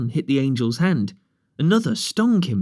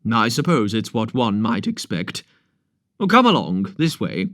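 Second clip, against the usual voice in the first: brisk doctor. Acted. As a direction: bluff and businesslike with a patient. Doctor Crump chatting, scolding boys.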